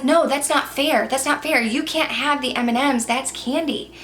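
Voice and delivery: put-on a kid sure the rule was broken; protesting kid. Kid protests to teachers, high whiny complaint.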